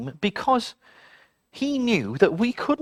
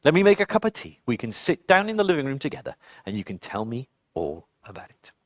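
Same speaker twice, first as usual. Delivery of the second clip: 1 calm mum; 6 semitones lower than usual. A narrator's reading. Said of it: "her mum said".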